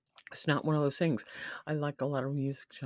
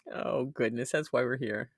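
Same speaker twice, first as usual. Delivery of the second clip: normal talking voice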